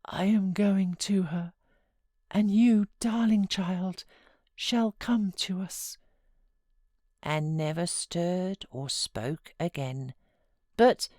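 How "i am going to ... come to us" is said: murmured. Acted. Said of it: "he murmured".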